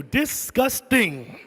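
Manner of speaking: slow drawn-out disgust. Acted. Comedian condemning hotel guests with slow disgust. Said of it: "I got three words for you".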